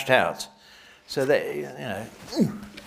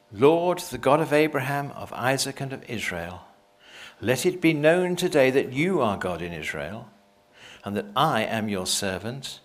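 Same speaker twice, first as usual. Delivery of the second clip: a hint of prayer. Elijah praying to the Lord, understated earnest prayer. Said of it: "Elijah the prophet came near and said".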